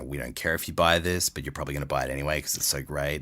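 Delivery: fast, offhand edgy commercial read. Shown as a demonstration. Voice actor sampling his edgy commercial read, offhand attitude. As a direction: toss it away with edgy attitude. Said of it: "that edgy read".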